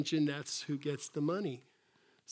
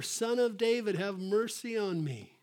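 retold shout; 4 semitones higher than usual. Beggar shouting all the more, half-hearted mock shout. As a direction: imitate an insistent cry, starting high. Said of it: "But he shouted all the more".

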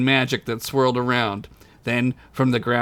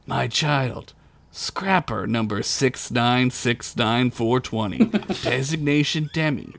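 gentle; slower than usual. Acted. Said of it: "the golden man said gently".

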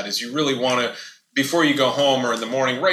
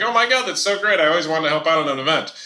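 higher, louder mock delight; gushing new hire; 5 semitones higher, 3 dB louder than usual. New hire hearing they'll help on events, gushing and excited. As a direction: gush like a thrilled new hire. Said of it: "And they're like".

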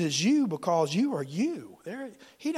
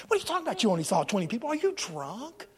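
softer, swooping questions of disbelief; incredulous retort; 2 semitones higher, 4 dB quieter, faster than usual. Acted. Answering someone who counted twenty, incredulous retort. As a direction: lightly act out baffled disbelief. Mock reply to a discourager.

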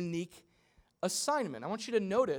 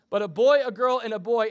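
loud, punchy list; loud emphatic count; 5 semitones higher, 11 dB louder than usual. Real, not acted. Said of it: "emphatic listing".

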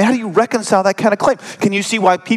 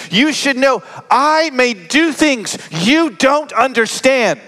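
raised, higher, insistent rebuke; firm rebuke; 4 semitones higher than usual. Acted. Jesus tells Mary and Joseph he is on God's timetable, raised and rebuking. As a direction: challenge them point by point.

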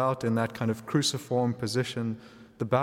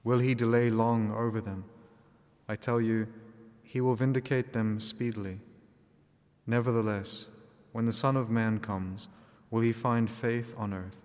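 measured liturgical reading voice; gospel reading. Acted. Gospel read aloud at Mass.

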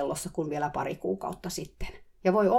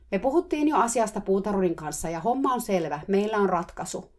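shouting back; 4 semitones higher than usual. Retold or imitated. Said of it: "mä huusin takaisin".

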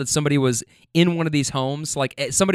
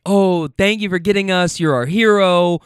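gushing tipsy women; 4 semitones higher, 4 dB louder than usual. Retold or imitated. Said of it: "they're all like".

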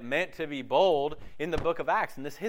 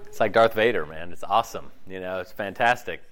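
a lower, slowed rumble of a Darth Vader inner voice; James Earl Jones voice; 8 semitones lower than usual. Pretend. Preacher jokes to the congregation about his booming inner voice. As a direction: play up a deep, booming inner voice. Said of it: "My, my voice sounds like".

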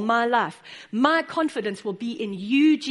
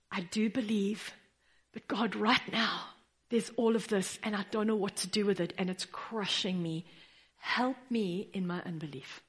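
quiet honest prayer; 2 semitones lower, 6 dB quieter than usual. Pretend.

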